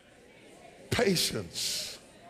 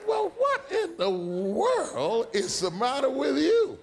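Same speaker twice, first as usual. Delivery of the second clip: slow, higher bewildered question; puzzled husband; 10 semitones higher, slower than usual. Retold or imitated. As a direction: ask it slowly, baffled by the scene. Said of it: "I said".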